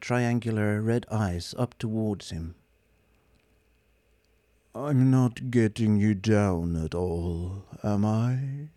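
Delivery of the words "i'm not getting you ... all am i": slow, pitiful robot whine; mopey robot plea; pathetically. Acted. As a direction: fish for sympathy. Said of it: "he said pathetically".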